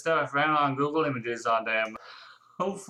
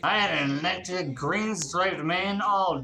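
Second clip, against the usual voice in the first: cringe hero voice. Acted. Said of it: "I'm not gonna keep doing that voice".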